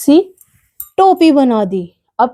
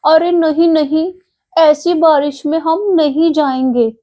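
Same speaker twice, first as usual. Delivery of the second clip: higher, frightened little voices; scared refusal; 6 semitones higher than usual. Acted. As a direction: shrink back from the storm. Friends refuse the naughty mouse. (डरते हुए ऊँची आवाज़ में मना)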